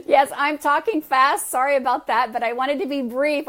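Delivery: amused apology. Real, not acted. Amused reply to remark on fast talk.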